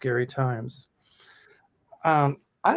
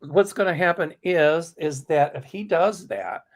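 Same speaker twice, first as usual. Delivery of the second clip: steadying voice; 3 semitones higher than usual. Real, not acted. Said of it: "let me compose myself".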